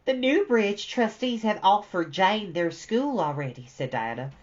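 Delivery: lively, animated reading of a classic novel; story narration. A narrator's reading. Reading Anne's story to viewers, animated storytelling. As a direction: read it aloud like a storyteller voicing each girl. Reads novel aloud with dialogue.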